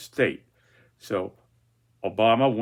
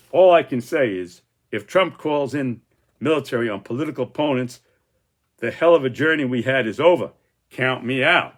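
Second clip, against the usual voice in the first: loud, indignant outburst with a slightly raised pitch; angry quote; 2 semitones higher, 5 dB louder than usual. Retold or imitated. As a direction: quote Lindsey as if fed up and shouting. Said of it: "And he's saying".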